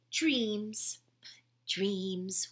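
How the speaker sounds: frog whispering dreams with a wink, hushed; whispered. Acted.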